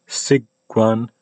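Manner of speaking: Siguan with a sharp s at the start; plain s. Shown as a demonstration. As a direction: open Siguan on a crisp s. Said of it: "is going to sound, you know, different".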